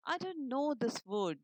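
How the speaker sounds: loud, slow elf squeak. Acted. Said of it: "the elf squeaked".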